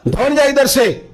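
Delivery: high, sharp angry shout; angry rebuke. Acted. Hajra shouting Satan away, angry. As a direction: drive the devil away with a shout.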